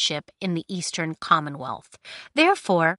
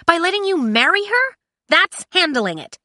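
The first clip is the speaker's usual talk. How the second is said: heated argument; 4 semitones higher, 4 dB louder than usual. Acted. Heated quarrel between Kai and Cinder.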